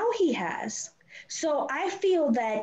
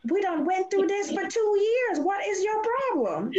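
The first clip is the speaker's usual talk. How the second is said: retold exasperation; 10 semitones higher than usual. Mother scolding son, retold.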